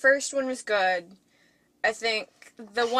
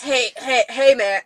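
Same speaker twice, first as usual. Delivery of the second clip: lightly voiced teenage dude; angsty teenager; 6 dB louder than usual. Shown as a demonstration. Failed dude voice for co-host, hint of angsty teenager. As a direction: call out "hey man" like an angsty teen. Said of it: "I'm sounding like an angsty teenager".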